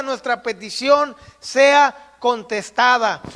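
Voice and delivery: loud exhortation, key words stretched slowly; forceful preaching. Real, not acted. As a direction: urge the congregation on, phrase by phrase. (predicación enérgica, alargando las palabras)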